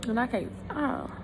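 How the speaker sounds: tearful, halting confession; real crying. Real, not acted. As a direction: talk through tears with long pauses. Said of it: "that's all I do is cry".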